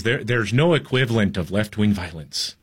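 put-on lightly done Irish accent, barely there; a half-hearted Irish lilt mocking the reporter; bad Irish accent. Host mocks the CNN reporter in a weak Irish accent. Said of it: "That's a terrible accent".

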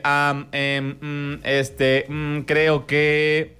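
hesitant thinking aloud. Shown as a demonstration. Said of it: "como decir".

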